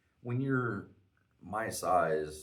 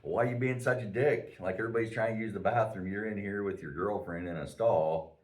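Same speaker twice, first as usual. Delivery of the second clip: raised, louder indignant complaint; retold confrontation; 3 semitones higher, 5 dB louder than usual. Telling off the guy hogging the stall, indignant.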